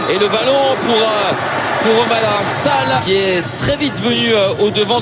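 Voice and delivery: excited commentary. Real, not acted. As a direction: call the chance with urgency. Live commentary, chance on goal.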